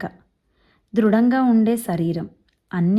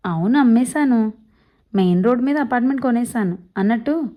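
lightly voiced hearty elder, a bit louder; boastful old man; 3 semitones higher, 4 dB louder than usual. Old man jokes to Keshava about his health, hearty. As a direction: brag about his iron health, jovial. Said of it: "Godavari యాసలో గబగబా మాట్లాడేస్తుంటారు".

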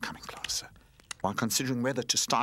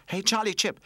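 calling out; 11 semitones higher, 5 dB louder than usual. A narrator's reading. Toys call on a friend.

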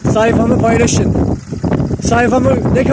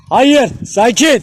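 slow calming; 4 semitones higher, much slower than usual. Real, not acted. Calming fighting dogs.

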